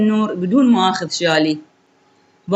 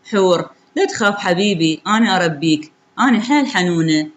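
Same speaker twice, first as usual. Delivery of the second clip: بحنان؛ بصوت حنون خفيف تطمّن الجنين؛ حنان هادئ بلا مبالغة؛ الأم تطمّن جنينها بحنان خفيف. Retold or imitated. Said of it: "وأحكي بعطف".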